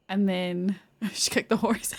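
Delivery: whispered through a laugh. Real, not acted. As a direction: giggle the words under your breath. Laughing aside about the horse.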